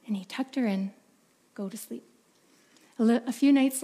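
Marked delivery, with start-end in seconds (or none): 1.5-2.0 much softer bedtime murmur; father sending his daughter to sleep; hushed bedtime. Acted. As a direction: settle her down to sleep. Father tucks her in.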